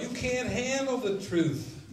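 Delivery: a hint of the courtroom colonel; Jack Nicholson. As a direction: spit out the famous movie line. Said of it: "Nicholson would say".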